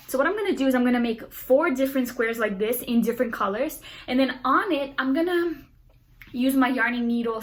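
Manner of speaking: fast excited rush of words; talking so fast. Real, not acted. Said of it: "Sorry, I'm talking so fast, I'm so excited".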